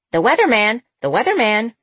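high, loud parrot squawk. A narrator's reading. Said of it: "echoed Roger".

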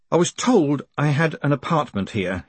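croaked out from a dusty throat. A narrator's reading. Moist to Grote after exploring dusty rooms, croaking. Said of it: "he croaked".

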